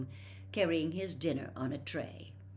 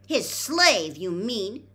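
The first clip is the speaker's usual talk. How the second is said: voice rising; 6 semitones higher, 11 dB louder, slower than usual. A narrator's reading. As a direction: retort rising high and loud. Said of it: "her voice rising shrilly".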